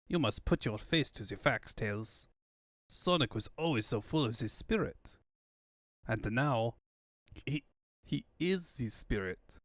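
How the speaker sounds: comforting Tails softly about Sonic; gentle consolation. Acted. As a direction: ease the boy into the truth.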